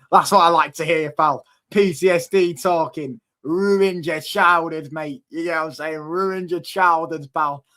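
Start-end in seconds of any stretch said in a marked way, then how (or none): 3.4-4.9 slow taunt. Real, not acted. Taunting rival fan. 6.0-7.3 slow taunt. Real, not acted. Taunting rival fan.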